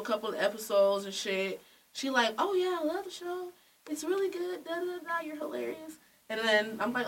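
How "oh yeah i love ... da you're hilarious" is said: gushing fan. Retold or imitated. Retelling a fan's gushing messages.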